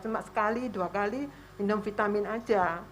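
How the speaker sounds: ordinary talk, nothing marked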